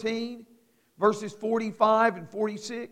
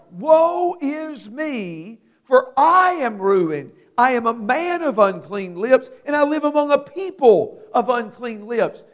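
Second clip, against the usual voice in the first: Isaiah's lament; 2 semitones higher, 4 dB louder than usual. Acted. Preacher voicing Isaiah's guilt among unclean people. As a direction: drag out woe in guilty anguish. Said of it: "Isaiah feels the same way".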